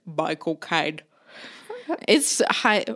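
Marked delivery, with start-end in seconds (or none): 0.1-1.0 lightly done mock cockney film-star voice; a loose, playful take on a London movie star; Michael Caine voice. To a friend, showing off the impression from Memorial Day, lightly mock cockney film star. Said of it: "walked around the house talking like".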